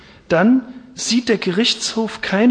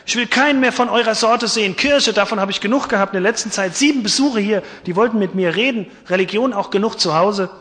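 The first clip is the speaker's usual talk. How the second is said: angry shouting; 4 semitones higher, faster than usual. Acted. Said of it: "schrie er".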